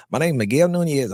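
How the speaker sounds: put-on young newcomer from North Carolina, lightly doing his old country accent; country boy accent. New arrival introducing himself to a stranger on the street, in a light country accent. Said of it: "I talked like this when I first got there".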